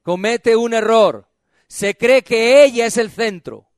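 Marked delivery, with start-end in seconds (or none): 0.0-1.3 slow model phrase. Shown as a demonstration. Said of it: "Diga, la iglesia".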